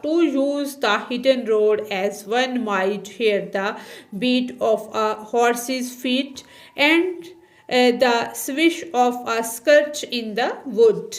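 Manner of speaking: reading the English line aloud, x0.4 word by word; slow textbook reading. Shown as a demonstration. Teacher reading the textbook line slowly to students. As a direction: read each word slowly for the class.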